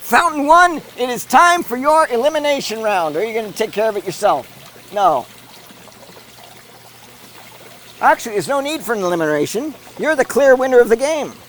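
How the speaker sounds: brisk sportscaster call of the race; live play-by-play. Acted. Commentator calling the fountain race live.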